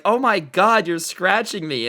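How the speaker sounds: imitating a teacher being scratched, alarmed; mock alarm. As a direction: act out the teacher's shock, jumping up in pitch. Teacher's shocked reaction, acted out.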